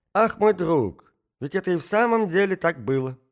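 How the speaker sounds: put-on old prince shouting with joy; ecstatic cry. A narrator's reading. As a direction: cry out in rapture. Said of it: "закричал князь в восторге".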